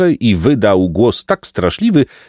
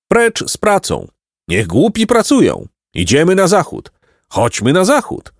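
higher, chanting-like cries without real volume; rallying cries; 9 semitones higher than usual. A narrator's reading. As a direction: call out slogans with mild zeal. Chłopcy wykrzykują hasła w drogę. (wysokie okrzyki zachęty)

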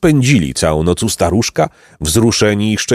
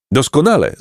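higher, gladly exclaimed; calling out; 8 semitones higher than usual. A narrator's reading. Jacek accepts the old man's offer, glad exclamation. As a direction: call it out brightly, without shouting. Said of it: "zawołał Jacek".

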